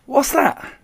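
very high, astonished question; startled. A narrator's reading. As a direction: squawk it in disbelief. Startled taxi driver sees mouse.

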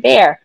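"bear" said for the drink beer; retold "bear" meant as beer; beer mispronounced. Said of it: "I was like".

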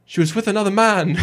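sung through a laugh; laughing mock croon of the lyric. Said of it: "and you just go".

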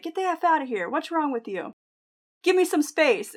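indignant orders, only half yelled; retold angry yelling. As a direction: imitate an irate man demanding space, held back. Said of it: "Like, he was yelling at him".

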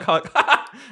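loud, high genuine laughter; real laugh. Retold or imitated. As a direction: burst out laughing at last. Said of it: "I do my real laugh".

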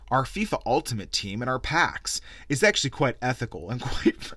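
laughing while reading. Real, not acted. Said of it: "I can't even say this without laughing".

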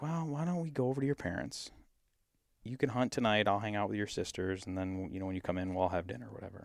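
a hint of a sweet offering wife; voicing wife. Wife voiced in the story.

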